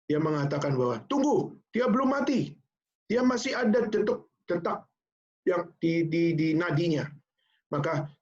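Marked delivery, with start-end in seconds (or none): 1.1-7.1 high, sudden urgent call; urgent discovery. Retold or imitated. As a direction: stop everyone, she's still alive. Medic finds a pulse.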